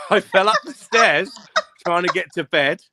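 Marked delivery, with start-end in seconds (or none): 0.0-1.3 laughing through words. Real, not acted. Laughing while telling.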